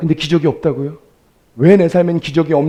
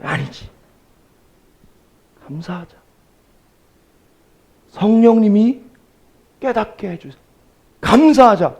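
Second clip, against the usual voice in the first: inner resolve. Retold or imitated. Inner voice resolving to give thanks.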